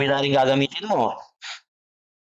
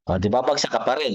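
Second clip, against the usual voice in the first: ordinary delivery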